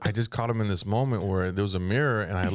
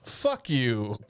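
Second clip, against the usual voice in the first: whispered retort. Retold or imitated. Kid retort to the girl.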